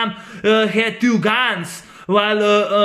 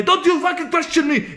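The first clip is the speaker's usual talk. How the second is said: mock villain snarl; 9 semitones higher than usual. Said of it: "Johnny Wong says".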